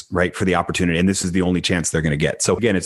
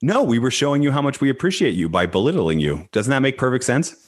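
higher, playful mock sincerity; mock-innocent teasing; 5 semitones higher than usual. Real, not acted. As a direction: tease the host with fake innocence. Teasing the host.

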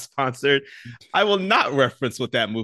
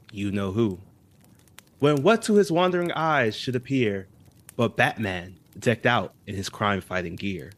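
story reading. Acted. Reads Christmas poem aloud.

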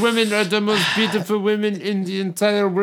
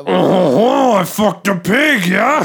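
mock French accent, louder and hammed up; 3 semitones higher, 7 dB louder, slower than usual. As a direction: put on a cartoon French accent. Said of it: "I'm so good at a French accent".

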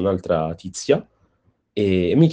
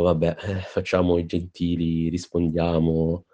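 weary resignation; 2 semitones lower, 4 dB quieter, slower than usual. Retold or imitated. Tired passenger deciding to humour the talkative woman, mildly resigned. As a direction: give in reluctantly, voice sinking a little. Giving in politely though sleepy.

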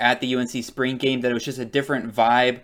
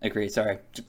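choking on water; 3 semitones lower, faster than usual. Real, not acted. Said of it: "started choking on water there".

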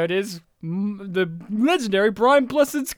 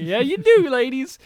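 sarcastic; 6 semitones higher, 6 dB louder than usual. Retold or imitated. Mock reply to ladies.

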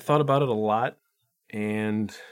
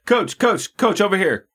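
higher, eager reporter shouting for attention; reporter calling out; 6 semitones higher than usual. Pretend. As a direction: call out to the coach over the crowd. Mock reporters shouting at coach.

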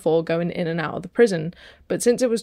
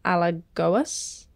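Portuguese accent; 2 semitones lower, 3 dB quieter, much slower than usual. Real, not acted. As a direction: place name in put-on Portuguese accent. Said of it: "a beautiful Portuguese accent".

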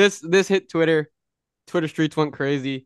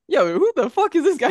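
high, loud indignant yell; Drewski outraged; 12 semitones higher, 4 dB louder than usual. Retold or imitated. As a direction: shout it in disbelief at a stranger. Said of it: "Drewski's like".

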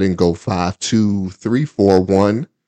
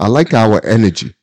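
laughing; 2 semitones higher, 5 dB louder than usual. Shown as a demonstration. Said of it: "like you trying to say hippopotamus".

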